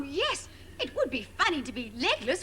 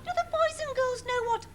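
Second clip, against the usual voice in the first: put-on higher, patronising question to the kids; condescending presenter; 7 semitones higher than usual. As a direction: spell it out as if to toddlers. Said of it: "very condescending the way they spoke".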